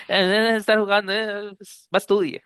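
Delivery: hammed-up scold of a lazy kid; mock bossy parent. Joking teacher mocks scolding spelling kids. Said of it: "No, mentira".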